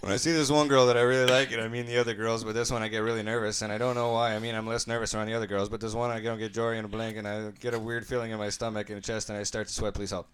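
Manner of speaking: run-on read with no pauses; all in one breath. Shown as a demonstration. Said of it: "Try and say it exactly how he typed it".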